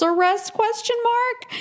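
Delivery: very high-pitched spoken question mark; incredulous query. Real, not acted. Doubting house arrest by inspector, incredulous. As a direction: voice shooting up in comic doubt. Speaks punctuation to show disbelief.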